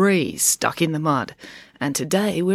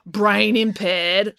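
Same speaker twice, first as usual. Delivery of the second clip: slow, drawn-out comeback; pointed, stretched-out retort; 4 semitones higher, much slower than usual. Acted. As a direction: throw the phrase back mockingly. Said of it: "retorted April".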